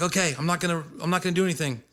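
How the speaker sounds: high-pitched retold reassurance; placating. Retold promise to the bouncer.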